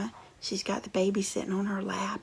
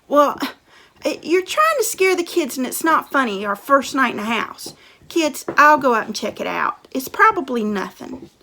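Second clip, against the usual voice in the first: protesting dad; 3 semitones higher, 14 dB louder than usual. Acted.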